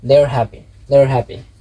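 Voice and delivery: "they're" like there, run into "happy"; connected speech. Shown as a demonstration. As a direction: say "they're happy" as one linked unit. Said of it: "connect করে বলে".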